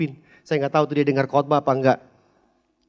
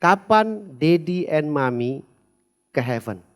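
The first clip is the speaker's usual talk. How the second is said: put-on child's question; slower than usual. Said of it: "Pertanyaannya begini".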